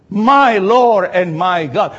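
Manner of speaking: slow, drawn-out awed cry; Thomas's cry. Acted. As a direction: let each word land slowly, in awe. Preacher repeats Thomas's cry.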